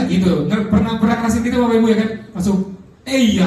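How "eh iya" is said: "Eh iya" popped out high and quick; sudden blurt. Shown as a demonstration. Preacher showing the startling reply, blurted. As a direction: let it jump out unfiltered. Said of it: "pokoknya langsung keluar".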